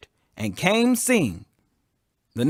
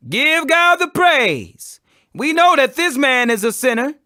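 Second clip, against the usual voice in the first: stern command; 8 semitones higher, 5 dB louder than usual. A narrator's reading. Pharisees order the healed man.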